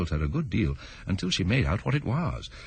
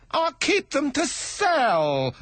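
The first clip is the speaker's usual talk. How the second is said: high, slow stammering plea; timid hatter begging pardon; nervous hatter; 3 dB louder, much slower than usual. Acted. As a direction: stammer it out, afraid of the king. Hatter explains.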